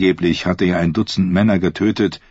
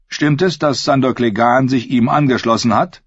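evil queen; 6 semitones higher than usual. Acted. Cersei voiced in reading.

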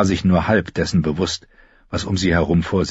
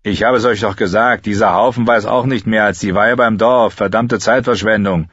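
louder irritated grumble; a hint of a fed-up soldier; grumbling soldier; 3 semitones higher, 4 dB louder than usual. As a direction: soldier grousing to the others, louder. Soldier complaining to comrades.

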